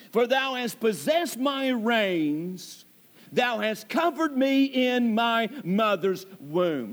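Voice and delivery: slow, solemn reading of the verse; slow scripture reading. Shown as a demonstration. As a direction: lay out each word of the verse slowly. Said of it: "Now look at that statement".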